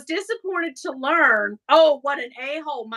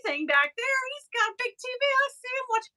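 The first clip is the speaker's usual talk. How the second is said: mock questioning; 10 semitones higher, much faster than usual. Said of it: "And I'm like".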